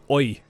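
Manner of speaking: "oi" said with a round Somerset oi sound. Shown as a demonstration. Host showing the Somerset word for I. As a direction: give "oi" the local Somerset vowel. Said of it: "hear him say things like".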